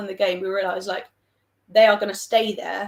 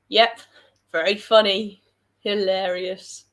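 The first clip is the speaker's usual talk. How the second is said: sarcastic; 3 dB louder than usual. Real, not acted. Dry answer to chat's joke.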